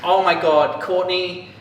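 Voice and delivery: loud hammed-up groaning complaint, rising at the end; mock exasperation. Foiled pranksters to their classmate, mock exasperation. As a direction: act out foiled pranksters' dismay. Retelling the pranked kids' reaction.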